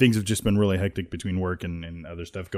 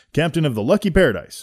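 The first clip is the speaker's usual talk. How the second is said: ordinary talk, nothing marked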